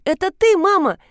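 put-on a small boy who can't believe it; eager child. A son asks his mother if it's really her, eager.

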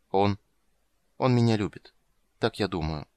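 ordinary delivery

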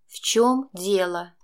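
slow, clipped through teeth, syllable by syllable. A narrator's reading. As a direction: spit it out syllable by syllable. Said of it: "чуть ли не по слогам процедила мама". (мама цедит дочери по слогам, медленно)

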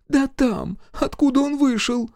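village mother-in-law. Acted. Mother-in-law scolding her husband at the wedding. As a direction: scold the drunk husband, then coax the major.

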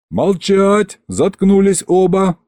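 high, commanding shout; shouted order. A narrator's reading. Governor silences two quarrelling peasants, shouting. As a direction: cut both of them off.

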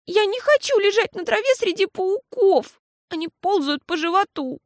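put-on high, childlike protest; upset little girl. A narrator's reading. Girl refuses mama's game, high upset voice. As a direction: whine it like a scared child.

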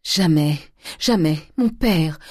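loud grief-stricken wail; anguished crying. A narrator's reading. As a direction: cry out in despair. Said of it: "Les pleurs et les sanglots". (cri de désespoir en larmes)

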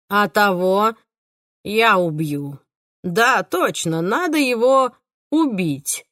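slow, menacing killer; cold and unsettling; creepy killer voice. Acted. Killer's lines.

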